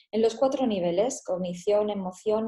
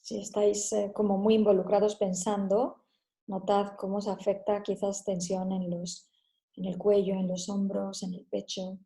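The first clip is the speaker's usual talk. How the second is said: measured Spanish meditation guidance; guided meditation. Acted. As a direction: guide listeners gently through the body.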